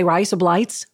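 one-phrase attempt at an Australian accent; bad Australian accent. Shown as a demonstration. Co-guest attempting the only Australian line they know, bad Australian accent. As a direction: try a clumsy Australian accent. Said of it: "I can't do them".

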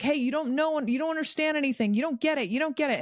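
high-pitched, insistent self-parody; mock nagging. Wife pushing coaching on her husband, mock nagging.

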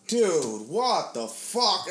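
drawn-out, disbelieving retold reaction; appalled group reaction. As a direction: stretch the words out in mock disbelief. Everyone's shocked reaction, acted.

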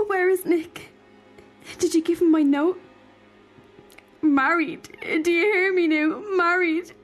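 put-on a touch of tearful panic in a young girl's voice; frightened girl. Frightened girl crying to the old woman about leaving. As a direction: let her fear crack the words.

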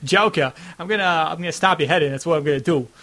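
put-on light Boston accent, tough-guy threat; lightly imitating a Boston accent. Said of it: "phonetics of, like, his Boston accent".

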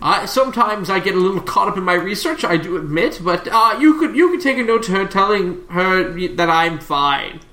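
lightly voiced absent-minded professor. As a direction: brush off a friend's worry, lightly in character.

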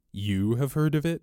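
high, questioning surprise; sudden interest. A narrator's reading. Robber leaning over the little priest, asking with sudden interest. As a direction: ask with suddenly piqued interest, pitch up. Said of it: "sort of sudden interest".

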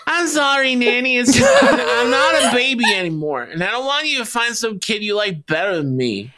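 lightly voiced kid on the edge of tears; apologetic boy Peter. Boy apologizing to his nanny, mock-tearful pleading. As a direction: start high and halting, then settle into pleading.

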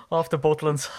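said through laughter; laughing. Real, not acted. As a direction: chuckle the words out. Laughing at holiday joke.

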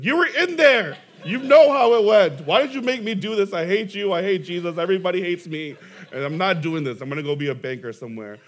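loud, high outburst at the pastor; half-laughing replay of a furious rant; retold rant. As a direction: vent it like a hurt young preacher. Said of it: "me ranting after him".

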